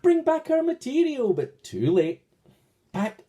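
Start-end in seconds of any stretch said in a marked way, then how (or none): 0.0-1.3 high, loud call after the thieves; shouted. A narrator's reading. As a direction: yell it high and loud to stop them. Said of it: "The princess and her maiden shouted".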